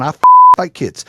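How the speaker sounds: mock yell of an angry mother; retold yelling. Mom yelling at his son, mock yell. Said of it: "she's yelling at my son".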